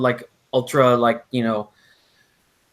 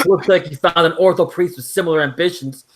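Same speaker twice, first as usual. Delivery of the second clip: higher-pitched imitation of a snarky dig; mock taunt; 4 semitones higher, 4 dB louder than usual. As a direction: read it out as a teasing jab. Reading out an online mocking jab.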